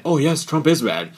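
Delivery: mock eager agreeing; mocking agreement. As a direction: parrot it like a brainless follower. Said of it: "some people are like".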